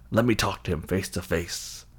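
lightly voiced sinister order; quietly eerie villain imitation; ghostly master's voice. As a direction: speak as the hidden dark lord. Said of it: "when the voice goes".

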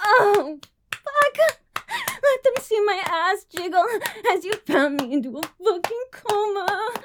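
performed moaning with gasps and cries; breathy moaning. Acted. Streamer performing for her chat, moaning throughout. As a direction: moan through every line, pleasure building.

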